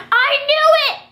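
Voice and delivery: high, loud yell of triumph; retold scream. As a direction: shout it out like you called it all along. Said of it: "I was screaming".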